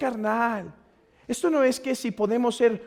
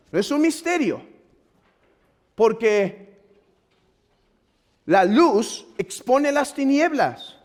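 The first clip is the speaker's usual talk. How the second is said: raised, insistent pulpit delivery; emphatic preaching; 4 semitones higher, 4 dB louder than usual. Acted. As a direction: press each point on the congregation. (predicación enfática)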